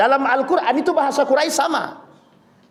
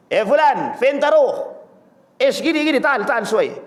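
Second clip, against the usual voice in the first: imitating Arab street talk; 3 semitones higher than usual. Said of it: "Itu bukan bahasa Arab resmi".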